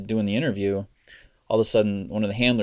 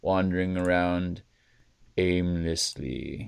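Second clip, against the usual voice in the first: quoting a game line; slower than usual. Retold or imitated. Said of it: "when I go".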